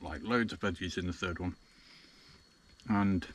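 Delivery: talking through a mouthful; words round a bite of food; mouth full. Real, not acted. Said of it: "I apologise for talking with my mouth full".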